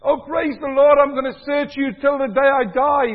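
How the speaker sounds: high, loud mock-pious baby voice; mock pious newborn. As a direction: ham up a newborn praising the Lord. Mock newborn praising God again.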